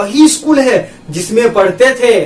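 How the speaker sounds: वही said with weight and a falling tune; stress on वही. Shown as a demonstration. Teacher demonstrates emphasis by stressing वही. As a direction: put your weight on वही. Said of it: "जोर देकर बोला".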